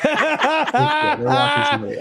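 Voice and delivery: talking through laughter; laughing. Real, not acted. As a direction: laugh while you say it. Laughing at two streams.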